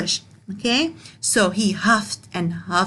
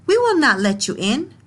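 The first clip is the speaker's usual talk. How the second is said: shouting pigs; 4 semitones higher than usual. Acted. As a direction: refuse firmly. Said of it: "the pigs shouted back".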